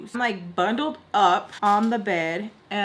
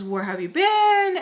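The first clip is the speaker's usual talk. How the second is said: much higher-pitched, drawn-out question; imitated demanding greeting; 10 semitones higher, 4 dB louder than usual. Woman questioning the man who just arrived, high and demanding. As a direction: pitch it up, confronting him at the door.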